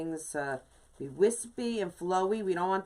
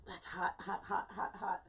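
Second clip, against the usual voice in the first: laughing through pain; 9 dB quieter than usual. Real, not acted.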